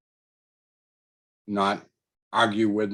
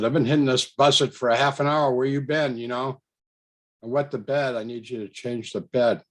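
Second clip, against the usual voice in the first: angry complaint; 3 semitones higher than usual. Retold or imitated. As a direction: replay your indignant demand to the nurse. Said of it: "And I said to her angrily".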